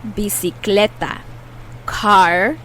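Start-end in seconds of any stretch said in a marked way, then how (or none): 0.0-1.2 bicicleta in Spanish, each syllable clear; Spanish word said clearly. Shown as a demonstration. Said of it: "The words we're gonna be learning today".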